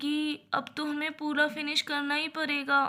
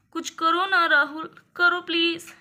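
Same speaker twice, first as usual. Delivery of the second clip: pleading mother; 6 dB louder than usual. Acted. Mother begging husband to help.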